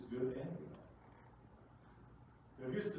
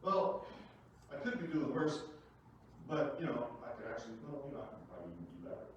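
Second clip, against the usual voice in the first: inner self-talk. Retold or imitated. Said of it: "you start to say to yourself".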